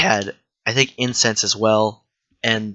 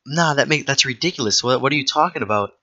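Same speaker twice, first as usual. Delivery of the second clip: scoffing disbelief; 3 semitones higher than usual. Pretend. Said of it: "and you think".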